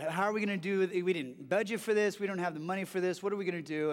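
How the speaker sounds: quick, mildly stressed worrying; retold stress. Couple fretting over piled-up medical bills, mildly stressed. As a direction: rattle through the worries, lightly acted. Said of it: "starting to get stressed out".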